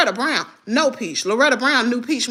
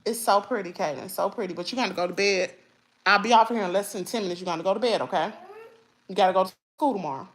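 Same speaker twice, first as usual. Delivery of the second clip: mother telling Kaden to go to bed, softer and lower; quiet aside; 5 semitones lower, 6 dB quieter, faster than usual. Real, not acted.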